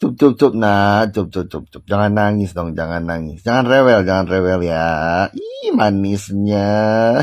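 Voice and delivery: put-on calm a fussy baby, teasing; mock baby soothing. Vlogger hushes lawyer like crying baby, mocking.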